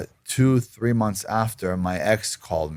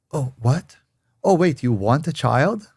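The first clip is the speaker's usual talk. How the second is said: imitated high, louder astonished question; mock surprise; 7 semitones higher, 4 dB louder than usual. Imitating girlfriend hearing he wants the child, mock surprise. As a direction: play her sudden disbelief, pitched up. Retelling girlfriend's sudden change.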